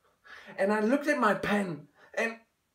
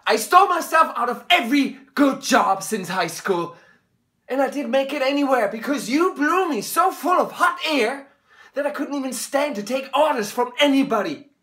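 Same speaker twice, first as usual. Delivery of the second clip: angry; 3 semitones higher than usual. Acted. Son accusing his father.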